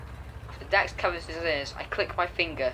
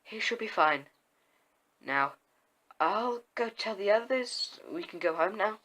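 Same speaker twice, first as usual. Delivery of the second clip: lightly voiced smooth-spoken healer, a little raised in pitch by the end; 4 semitones higher than usual. A narrator's reading. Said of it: "with her smooth voice".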